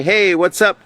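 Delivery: high, loose and breezy hey; casual greeting to friends. Shown as a demonstration. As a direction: toss it off like to a buddy. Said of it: "to your friends".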